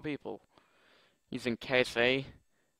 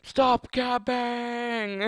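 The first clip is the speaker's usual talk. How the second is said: mock scolding; 10 semitones higher, 5 dB louder, much slower than usual. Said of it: "my voice is starting to".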